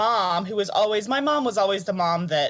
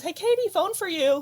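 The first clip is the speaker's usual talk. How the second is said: mom calling out; 13 semitones higher than usual. Retold or imitated. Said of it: "my mom says".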